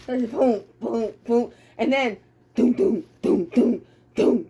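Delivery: steady booming march beats; hammed-up drum beats of a march; imitated marching thuds. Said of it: "They're marching".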